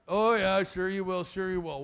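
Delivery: low-key, dropping scoff; sarcastic disbelief. Retold or imitated. Boy scoffs at the bully's threat, sarcastic.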